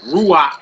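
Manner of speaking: teacher's demo of "ruach", first syllable stressed. Shown as a demonstration. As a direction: punch the "ru" in "ruach". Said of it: "is stressed on the root".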